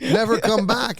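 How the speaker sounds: high, loud, slow dismissal; mock director's drawn-out send-off; film director. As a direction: banish the actor slowly and loudly. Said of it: "the director's gonna look at you".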